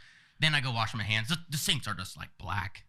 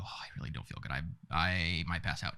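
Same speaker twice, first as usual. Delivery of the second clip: low, faint woozy mumble, slowing down; about to faint; 6 semitones lower than usual. Retold or imitated. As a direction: act out feeling like passing out. Retold feeling faint during draw.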